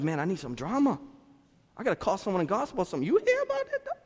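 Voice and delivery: mock gossip-hungry voice, squeaking up at the end; hammed-up drama lover craving gossip; drama seeker. Pastor mocking churchgoers who crave drama. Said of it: "Some of us like".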